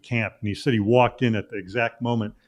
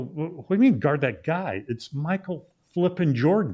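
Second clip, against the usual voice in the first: high, pitched-up disbelief; incredulous protest; 7 semitones higher than usual. Retold or imitated. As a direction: protest that nobody could guard Jordan. Teammate demands he guard Jordan.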